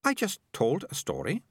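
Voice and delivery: high, composed character voice; mildly self-possessed reply; calm. A narrator's reading. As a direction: state it unruffled. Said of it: "said Melicia calmly".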